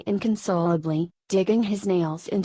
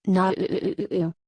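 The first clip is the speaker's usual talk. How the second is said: distant scream. A narrator's reading. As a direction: wail "ooh" as if from a distance. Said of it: "A loud scream came wafting in".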